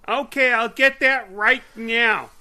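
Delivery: loud, high-pitched British saleslady; mock a shop lady in a shouted British accent; big high British voice, hammed up. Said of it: "gave her a British accent".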